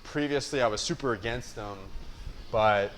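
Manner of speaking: muffled behind a cloth mask; talking through a fabric mask; through a face mask. Real, not acted. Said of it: "I'm wearing a mask right now".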